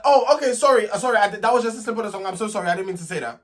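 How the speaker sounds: mock sorry; mock apology. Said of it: "she could have said".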